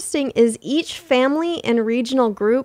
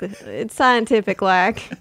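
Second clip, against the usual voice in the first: "scientific" repeated back at usual level in a lighter Southern voice; letting the Southern protest trail off; Southern whale, softer repeat. Pretend. Whale repeating its defence, gentler Southern accent. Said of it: "imagine all sperm whales as having a southern accent".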